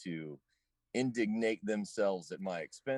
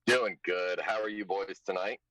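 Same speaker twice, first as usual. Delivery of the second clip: echoey; 6 dB louder than usual. Real, not acted. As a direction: echo from a car Bluetooth. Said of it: "you sound a little echoey".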